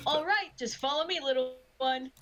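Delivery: a hint of children's entertainer; clown. Clown leading a little boy to the balloons, lightly put-on high voice.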